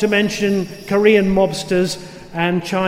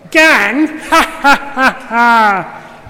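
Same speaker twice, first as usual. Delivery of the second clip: loud, high belly laugh; big laugh; 3 semitones higher, 5 dB louder, much slower than usual. A narrator's reading. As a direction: laugh it off hugely. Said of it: "laughed Frog".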